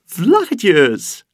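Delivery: high, loud cry of delight; gleeful child cheering; happy shout. Acted. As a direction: shout it overjoyed. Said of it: "roept ze blij".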